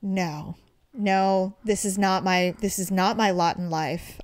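low, subdued mock resignation; resigned verdict. Retelling resigned verdict on recording.

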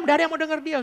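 high, loud storytelling as the crowd turns; preacher raises his voice telling how the crowd ignored the dictator; excited retelling. A narrator's reading. Preacher telling the dictator story, high and loud.

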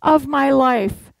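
a light impression of an insistent bride; imitating the bride. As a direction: play the bride pleading for her big day. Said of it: "the bride kept saying".

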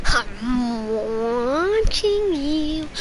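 slow, drawn-out creepy "I'm watching you"; creepy watcher. Pretend. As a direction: linger on every word like a lurking stalker. Creepy slow stalker lines.

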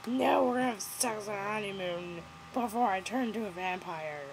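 lightly put-on girlfriend voice; hint of a mocking impression; mock Bella.

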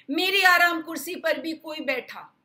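a high, loud mama bear cry; mama bear shouting. Acted. Mama bear shouting that someone sat in her chair. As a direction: shout it out, shocked and angry. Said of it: "मम्मा भालू चिल्लाई".

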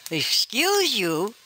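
slow, drawn-out sarcastic throwback; mocking echo. Caller mocks the scammer's "excuse me", slow and sarcastic. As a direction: drag it out to mock her.

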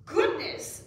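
high, loud cry of astonishment; startled frogs. A narrator's reading. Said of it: "said the frogs".

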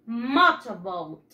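"Motorboat" said slowly for repeating; teacher models "Motorboat" for the children to echo; slow model word. Shown as a demonstration. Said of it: "Repeat after me".

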